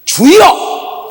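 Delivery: high, loud, drawn-out cry to the Lord; imitated prayer shout. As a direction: mimic fervent calling out in prayer. Mimics people crying out "Lord. (주여 부르짖는 흉내)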